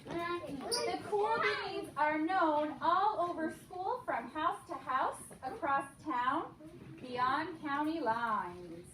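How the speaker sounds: slow dramatic storybook read; story narration. A narrator's reading. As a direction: stretch it out for the kids.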